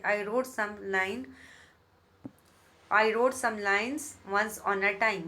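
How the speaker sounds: very slow, deliberate reading of verse; teacher reading poetry aloud; poem recitation. Shown as a demonstration. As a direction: savour each word of the poem line.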